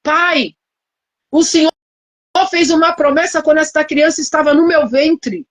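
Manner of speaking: imitating her desperate prayer at the hospital; retold tearful prayer. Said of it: "comecei a chorar e falar".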